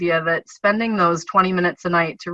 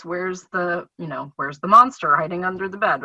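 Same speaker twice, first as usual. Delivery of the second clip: engaging reading questions. Shown as a demonstration. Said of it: "say things like".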